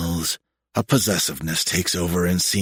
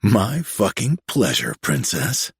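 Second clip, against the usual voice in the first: wicked smile. Acted. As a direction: savor it with a smirk. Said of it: "a wicked smile in his voice".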